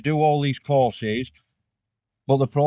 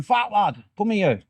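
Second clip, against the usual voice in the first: put-on shouted high in a broad Wigan accent; 9 semitones higher, slower than usual. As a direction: bark it across the wing like a Wigan officer. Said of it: "proper Wigan accent".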